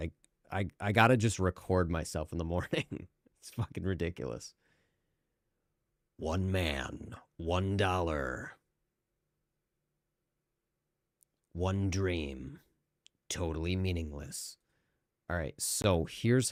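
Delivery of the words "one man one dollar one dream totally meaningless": deep movie trailer announcer voice, quieter. Showing off a voice they can do easily, deep movie trailer voice. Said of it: "I can do the movie guy voice like really easy".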